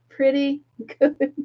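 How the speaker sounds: drawn out slowly into a laugh. Real, not acted. Joking about laughing at herself, amused and laughing. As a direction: say it slow, breaking into a chuckle.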